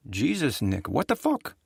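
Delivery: a hint of Rita's exasperation; lightly voiced, exasperated outburst; exasperated woman. Rita exasperated at Nick, lightly voiced.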